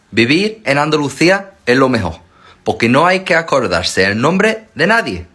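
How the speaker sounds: loud, high, energetic rant; loud excited. Real, not acted. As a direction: shout it with excitement.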